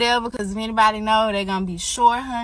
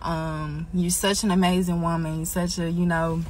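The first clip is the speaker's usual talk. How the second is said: holding back tears; 3 semitones lower, 4 dB quieter than usual. Real, not acted. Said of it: "I said I wasn't gonna get emotional".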